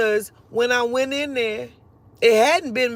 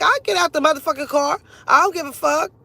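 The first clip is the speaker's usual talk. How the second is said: defiant retort; 5 semitones higher, 4 dB louder than usual. Retold or imitated. Defiant retort to cop retold.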